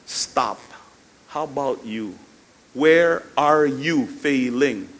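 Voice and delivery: restrained firm questioning; counselor confronting. Retold or imitated. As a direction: halt them and ask deliberately. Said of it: "until I, I say".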